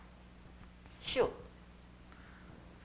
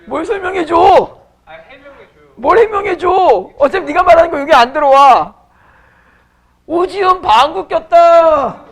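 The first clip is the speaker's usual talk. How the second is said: high, loud jeering at the student; loud teasing; 7 semitones higher, 16 dB louder than usual. Real, not acted. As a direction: keep yelling the joke at her.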